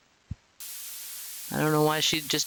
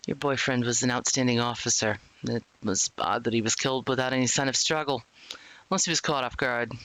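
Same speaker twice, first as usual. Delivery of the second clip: lower-pitched officer, matter-of-fact; police interrogator; 4 semitones lower than usual. Acted. Officer questions a murder suspect, stern low voice. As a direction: play the cop laying out evidence.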